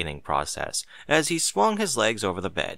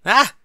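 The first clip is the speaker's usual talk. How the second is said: cry of alarm; 13 semitones higher, 9 dB louder than usual. Acted. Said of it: "she cried out".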